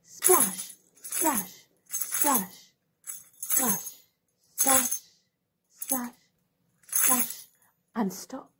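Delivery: slow and soft. Shown as a demonstration. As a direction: draw each splash out slowly. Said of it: "Can we splash really slowly?".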